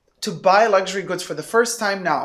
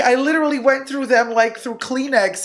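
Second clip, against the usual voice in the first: higher-pitched mock exasperation, laughing; exasperated friend; 5 semitones higher than usual. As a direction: act out a friend's laughing outrage. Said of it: "She's like".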